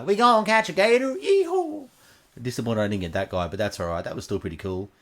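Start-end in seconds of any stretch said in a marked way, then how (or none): 0.0-1.9 high-pitched gator hunter whoop; gator guy. Acted. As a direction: whoop it up like a gator guy, much higher and louder. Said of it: "didn't get my gator guy".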